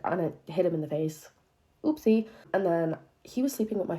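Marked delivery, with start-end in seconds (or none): 1.8-2.3 a bright, fake-sorry little oopsie; mock innocent oopsie. Real, not acted. Owning up to hitting her boyfriend, mock innocent. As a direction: play innocent after the throw. After hitting him with phone.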